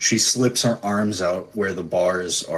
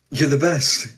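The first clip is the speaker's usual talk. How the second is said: lightly tearful, relieved sister; tearful smile; 7 semitones higher, 4 dB louder than usual. Acted. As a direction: apologise through a tearful smile. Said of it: "like, a tearful smile".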